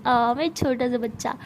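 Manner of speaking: put-on slow cooing baby talk, teasing. Sana mocking Mahi as a little kid, slow cooing. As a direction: stretch it out like talking to a toddler.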